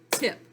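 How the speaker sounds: "tip" alone as one short beat; one-clap syllable. Shown as a demonstration. Teacher showing a one syllable word, "tip" on one beat. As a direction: say "tip" crisply on a single clap. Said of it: "It gets one clap".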